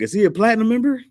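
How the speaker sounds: high mock snooty voice; snooty paramedic. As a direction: ask it like a snobby clerk. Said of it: "They were like".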